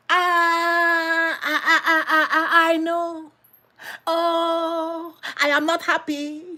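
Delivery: whiny, high complaining wife, half laughing; mock complaining wife. Preacher mimicking a wife complaining about her husband, whiny. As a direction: whine like an unhappy neglected wife. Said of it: "That is marriage".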